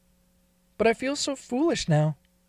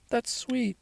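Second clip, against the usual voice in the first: whisper; 4 semitones higher, 6 dB quieter than usual. Acted. Touched reply to kind listener.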